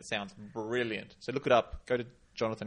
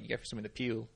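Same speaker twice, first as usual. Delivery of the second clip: Adelaide accent; 3 dB quieter, much faster than usual. Shown as a demonstration. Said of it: "if you're in Adelaide".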